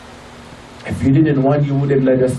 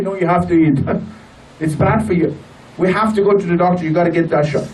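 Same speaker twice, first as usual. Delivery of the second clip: insisting mother; 7 semitones higher, faster than usual. Retold or imitated. A very passionate and kind mother.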